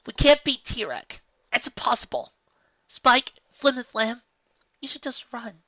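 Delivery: high, loud frantic orders. A narrator's reading. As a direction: Twilight orders everyone away in panic.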